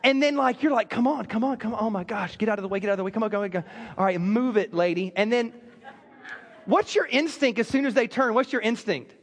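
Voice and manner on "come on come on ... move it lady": under-the-breath impatient driver; impatient muttering. Retold or imitated. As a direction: mutter low at the car ahead. Impatient driver stuck behind slow car.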